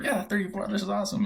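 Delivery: high excited cheer. Retold or imitated. Family checks the chart, high thrilled cheer. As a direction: squeal it like a kid who just got drafted.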